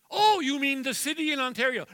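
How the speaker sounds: loud, high eager exclamation; hammed-up eager grandpa; eager guess. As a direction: blurt out a proud guess.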